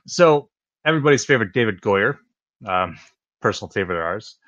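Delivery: dry mock endorsement; sarcastic praise. Real, not acted. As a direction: praise him as a favorite, sarcastically. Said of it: "that's sarcasm".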